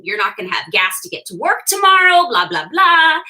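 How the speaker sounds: retold griping that builds in pitch and volume; mock mad nagging. Wife fretting to husband about gas, mock-mad nagging. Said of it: "I was mad at him the whole time".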